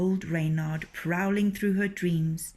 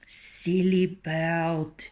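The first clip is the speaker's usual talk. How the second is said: dismissive; 3 dB louder, much slower than usual. Acted. Rooster dismisses hen.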